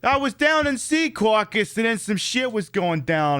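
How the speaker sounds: lightly voiced mobster telling a story, starting high; Goodfellas mobster. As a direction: launch into a gangster anecdote. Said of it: "this Goodfellas bit".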